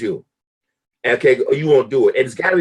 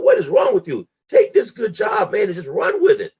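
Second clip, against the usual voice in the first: exasperated shout; 6 semitones higher than usual. Retold or imitated. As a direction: yell at yourself to keep the job. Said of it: "I said".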